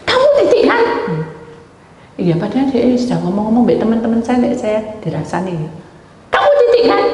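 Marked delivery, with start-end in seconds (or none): 0.1-0.8 much higher, louder, pointed question; mock high woman's voice. Mock high voice as the woman confronts the speaker. 6.3-7.0 much higher, louder, pointed question; mock high woman's voice. Mock high voice as the woman confronts the speaker.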